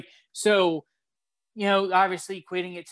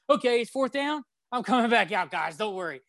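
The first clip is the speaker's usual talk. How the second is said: higher, carefree mock reassurance; mock casual quarterback; 5 semitones higher than usual. Quarterback reassuring his teammates, higher and carefree. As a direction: lightly play the star reassuring the team.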